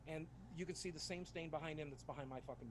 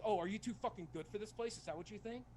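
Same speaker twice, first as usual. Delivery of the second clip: retold angry cellmate; 4 semitones higher than usual. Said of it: "the guy who's mad".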